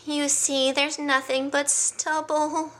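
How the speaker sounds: high, slow, mournful lion; sighing lion. Acted. Hubert showing friends his stubble, a sighing lament. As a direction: sigh it out sadly. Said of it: "and sighed".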